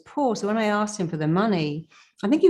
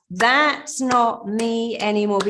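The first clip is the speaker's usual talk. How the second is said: slow, loud and emphatic declaration; powerful affirmation; 5 semitones higher, 4 dB louder, slower than usual. Shown as a demonstration. Coach modeling the affirmation to viewers, slow and loud. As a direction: shout it out with power. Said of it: "with power in your voice".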